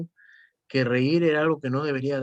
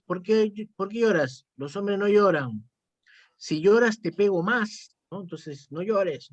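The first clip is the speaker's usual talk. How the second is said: raised pitch, stern mock scolding of a crying boy; scolding father; 5 semitones higher, slower than usual. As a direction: play the harsh dad telling his son off. Voicing a father scolding his son. (padre regañando con voz más aguda, en tono de imitación)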